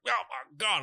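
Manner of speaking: imitated excited commentators. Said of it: "they're like".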